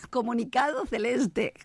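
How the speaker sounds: slow, giggling official decree; amused pompous proclamation; laughing mock announcement. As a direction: announce it while breaking into laughter.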